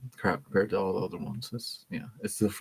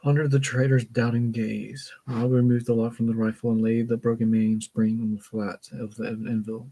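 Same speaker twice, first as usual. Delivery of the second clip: measured, even read-aloud voice; story narration. A narrator's reading. Reader reading a book passage aloud, story narration. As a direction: read it out carefully, phrase by phrase.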